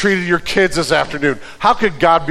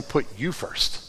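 much softer, coaxing murmur; sly tempting hush; 4 semitones lower, 11 dB quieter, slower than usual. Acted. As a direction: tempt them quietly like a serpent. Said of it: "his voice is saying".

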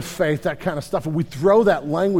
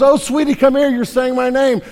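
higher, louder gushing mother; doting mom; 6 semitones higher, 5 dB louder than usual. Retold or imitated. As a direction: coo loudly to your toddler, delighted. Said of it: "mom turns and goes".

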